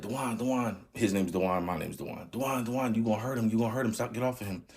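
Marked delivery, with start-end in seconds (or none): 0.0-0.8 mom pleading. Retold or imitated. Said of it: "My mom's like". 2.3-4.7 higher, urgent pleading; mom pleading. Retold or imitated. Mother begging her husband to let go, urgent and higher. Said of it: "My mom's like".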